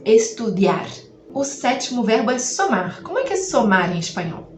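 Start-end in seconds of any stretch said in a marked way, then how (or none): 0.1-0.9 Estudiar slowly, the I quick and light, the A stressed. Shown as a demonstration. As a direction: glide past the I and lean on the A in Estudiar. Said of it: "Passa pelo I bem rapidinho".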